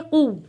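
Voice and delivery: कुव ending in a hard stop on व; कुव, closed sharply on the व; firm stop. Shown as a demonstration. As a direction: press and halt on the व of कुव. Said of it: "वाव के ऊपर सख्ती के साथ रुकेंगे".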